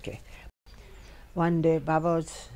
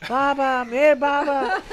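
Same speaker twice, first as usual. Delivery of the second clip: loud calls of the name, higher in pitch; retold shouting; 8 semitones higher, 8 dB louder than usual. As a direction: shout after the runaway rider. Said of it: "they keep on shouting".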